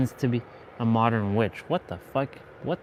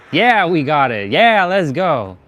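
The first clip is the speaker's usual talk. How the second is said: frat bro; 3 semitones higher, 7 dB louder than usual. Real, not acted. Celebrating the escape.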